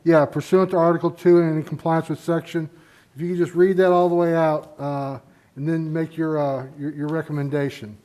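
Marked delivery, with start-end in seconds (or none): 0.0-4.7 muffled behind a face mask; words damped by a mask; speaking through a mask. Real, not acted. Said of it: "I'm speaking through a mask here".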